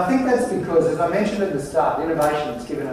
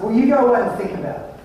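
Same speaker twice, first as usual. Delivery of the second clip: higher, faster mock brush-off; lightly voiced curt boss, higher and faster; dismissive boss; 8 semitones higher, 5 dB louder, faster than usual. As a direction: shoo him off quickly. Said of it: "I said".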